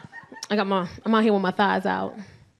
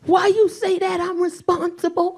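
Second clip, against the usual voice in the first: indignant son voice; 7 semitones higher than usual. Retold or imitated. Son indignantly protests drunk mom.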